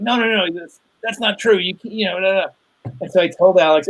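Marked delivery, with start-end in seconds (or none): 0.0-2.5 imitating his kid. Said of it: "'Cause he's always like".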